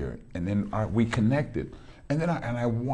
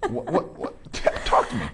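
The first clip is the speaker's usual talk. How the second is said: laughing tease; 3 dB louder than usual. Real, not acted. Host egging guest on, laughing.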